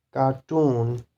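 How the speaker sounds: cartoon with TOON stressed; stress on suffix. Shown as a demonstration. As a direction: push the last syllable of cartoon. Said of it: "the stress will be on these suffixes".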